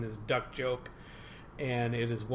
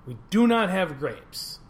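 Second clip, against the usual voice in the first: louder, higher, slow and emphatic; exasperated refusal; 5 semitones higher, 6 dB louder than usual. Acted. Bartender tells the persistent duck once more, exasperated refusal. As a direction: spell it out to a pest, word by word. Bartender losing patience in the joke.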